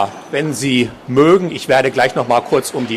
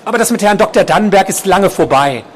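raised-pitch placating reply; appeasing; 8 semitones higher than usual. A narrator's reading. Nurse placating an agitated patient, higher appeasing voice. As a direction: reassure him, pitch lifted.

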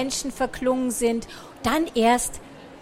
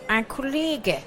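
Per als Figur; 2 semitones higher, 3 dB quieter, slower than usual. Acted.

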